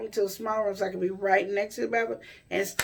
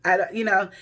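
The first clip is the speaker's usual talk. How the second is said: usual speaking voice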